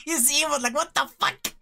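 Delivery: laughing hard. Real, not acted. Cackling over an enemy's reaction.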